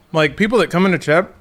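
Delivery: talking while chewing; words around a bite of cantaloupe; mouth full. Real, not acted. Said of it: "I'm eating cantaloupe right now".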